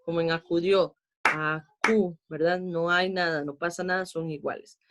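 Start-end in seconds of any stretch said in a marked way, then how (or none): 1.2-2.2 "acu" as two even beats, no accent; unstressed syllables. Shown as a demonstration. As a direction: say "acu" level, a-cu, neither syllable hit. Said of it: "donde no está el golpe de voz".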